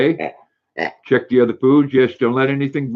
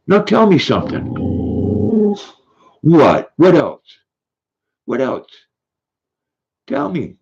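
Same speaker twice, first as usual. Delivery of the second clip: raised, louder coaxing; talking to the dog, pitched up; high dog-talk; 4 semitones higher, 3 dB louder than usual. Real, not acted. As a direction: egg the dog on to speak. Urging the dog to bark.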